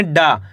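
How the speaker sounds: "डा" with the long aa stretched; drawn-out vowel. Shown as a demonstration. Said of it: "डा का उच्चारण यहाँ पे खींच को रहा है". ("डा" को खींचकर लंबा बोलना)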